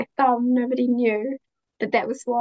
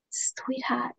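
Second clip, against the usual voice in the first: hushed, softer endearment; tender reassurance; 7 dB quieter than usual. Retold or imitated. Mother answering her almost-eight-year-old daughter, tender and hushed. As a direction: soften right down, as to a child.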